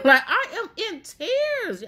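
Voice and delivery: high, laughing through the words. Real, not acted. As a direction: giggle while admitting the tears. Laughing at her own crying.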